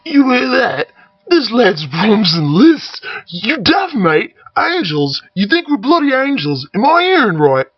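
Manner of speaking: loud, high mocking Cockney accent. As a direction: jeer at the boy in Cockney. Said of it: "cap-wearing cockney".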